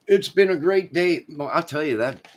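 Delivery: put-on voice. Sudden put-on voice to chat.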